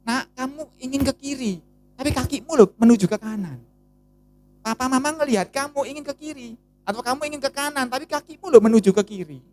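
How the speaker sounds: lightly voiced fatherly correction; talking to my child. Father gently correcting his child, lightly voiced. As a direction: gently chide the child about where his feet go. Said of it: "kalau ngomong sama anak saya".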